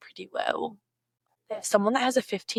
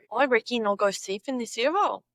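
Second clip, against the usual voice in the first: practised Aussie example sentence; attempted broad Aussie; Australian accent. Shown as a demonstration.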